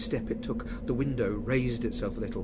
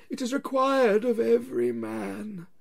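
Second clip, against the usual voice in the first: wailing ghost; 12 semitones higher, 6 dB louder than usual. Acted. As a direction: drag each word out like a wail from the grave.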